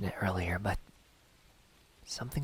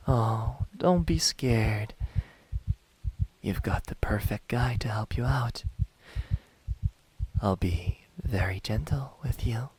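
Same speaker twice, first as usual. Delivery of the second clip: mock reassurance; 2 semitones higher than usual. Hunter promising a scared captive to be gentle, mock reassurance. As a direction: soothe them teasingly, taking your time.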